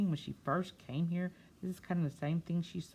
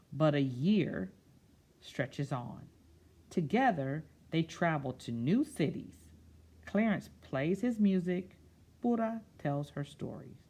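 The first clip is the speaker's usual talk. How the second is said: put-on slow, expressive read-aloud to children; storybook reading; 4 dB louder than usual. A narrator's reading. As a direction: read it like story time, savouring each word. Reads picture book aloud.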